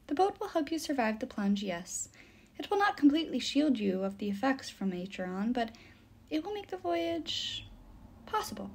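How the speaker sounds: softened, hesitant nymph voice; measured nymph. Acted. The nymph warns the boys about the plunge, measured and hesitant.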